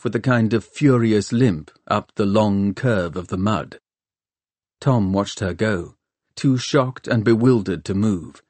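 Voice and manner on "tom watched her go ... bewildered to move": ordinary delivery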